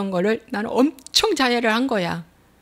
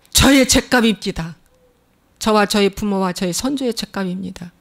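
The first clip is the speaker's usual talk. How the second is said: quiet prayer. Shown as a demonstration. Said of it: "내 마음은".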